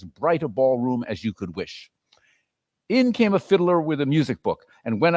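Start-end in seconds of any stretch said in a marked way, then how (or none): 1.1-1.9 whispering. A narrator's reading. Unexpected whisper in narration.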